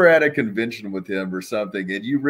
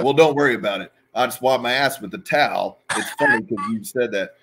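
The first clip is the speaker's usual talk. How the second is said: Sags's shrug; 2 semitones higher, 4 dB louder, faster than usual. Retold or imitated. Sags telling her not to worry, carefree. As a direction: brush it off, totally unbothered. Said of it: "He's like".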